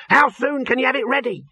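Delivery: high, eager question; excited yell. A narrator's reading. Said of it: "he yelled".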